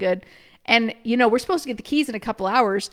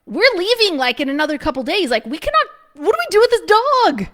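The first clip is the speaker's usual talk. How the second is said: higher, rushing into a worried question; panicked question; 5 semitones higher than usual. Retold or imitated. To each other about the dog, high rushed panic. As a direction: fret aloud about the abandoned dog, faster at the end. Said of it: "and we're like".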